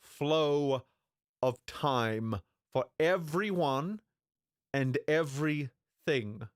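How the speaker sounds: slow, deliberate mock narrator read; trailer narrator. Repeating the trailer line after replaying it, as a slow mock narrator. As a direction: drag it out like a grave announcer. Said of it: "let's hear that again".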